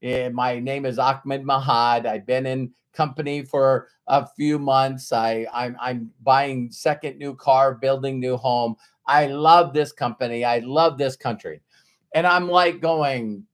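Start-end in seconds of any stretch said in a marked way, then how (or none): 0.0-11.6 put-on Middle Eastern accent. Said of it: "he had broken English from the Middle East".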